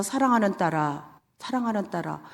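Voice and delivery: soft, gentle voice of the Lord; quietly loving call to a daughter; tender. Retold or imitated. God speaking to her in prayer.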